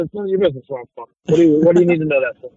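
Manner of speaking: put-on fast New York tough-guy accent; brusque New York brush-off, rattled off. Actor answering a nosy question, quick New York accent. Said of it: "I play guys from New York".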